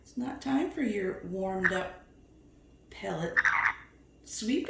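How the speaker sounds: whisper. Real, not acted. Whisper to parrot.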